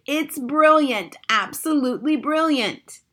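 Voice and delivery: high, loud, drawn-out praise; delighted shout. A narrator's reading. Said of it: "and she shouted".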